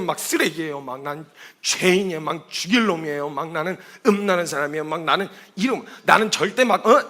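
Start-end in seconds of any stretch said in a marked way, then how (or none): 0.0-5.8 low, understated mock self-abasement; imitated self-berating. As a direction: imitate someone running themselves down, pitched low. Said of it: "이런 식으로 막 자학을 하니까".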